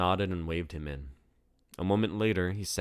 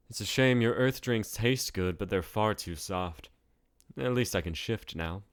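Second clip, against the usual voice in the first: higher, louder, amused and scornful; smug alien Deidre; 4 semitones higher, 3 dB louder than usual. Acted. Deidre mocking earth drinks before shifting, smug. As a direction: savour the moment before shifting.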